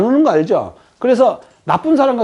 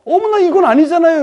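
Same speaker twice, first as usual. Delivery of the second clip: high, louder flustered "어머나"; mock shocked woman; 9 semitones higher, 4 dB louder than usual. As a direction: play a startled woman pushing back. Woman rejecting the man.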